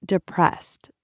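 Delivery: put-on thick Russian accent. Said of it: "She let the syllables roll thick out of her mouth".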